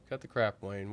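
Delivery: a flat put-down, barely voiced; cold, quiet brush-off.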